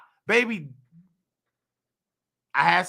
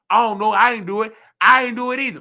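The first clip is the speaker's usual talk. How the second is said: louder, insistent denial; loud protest; 6 dB louder, faster than usual. Retold or imitated. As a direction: push back hard, louder each time. Protesting innocence to supervisor.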